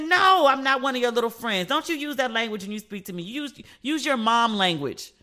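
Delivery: high, loud protest easing into firmness; re-enacted telling-off, slowing at the end; retold mild scolding. Daughter correcting mother's language, mildly scolding.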